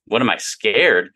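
slow, disbelieving repeat; incredulous echo. Retold or imitated. Young engineer echoing his coworker's jab, slow and incredulous. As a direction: throw the question back, offended. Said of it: "And I'm like".

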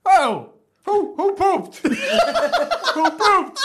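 high, loud teasing singsong; imitating the boyfriend calling out the room; mocking accuser. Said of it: "he's going".

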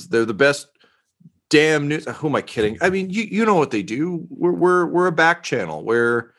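eager, pleased to be praised; reporter voice. Acted. Reporter NPC talks about network.

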